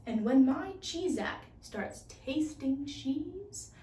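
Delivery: a touch of scorn, sneering at the name; lightly voiced scheming inventor, sly and smug; scornful. Inventor sneering at the mouse to himself, mildly scornful.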